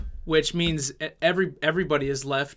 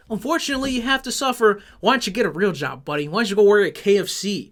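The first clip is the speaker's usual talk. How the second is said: mocking Matt; 3 semitones higher than usual. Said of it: "Matt would say to that".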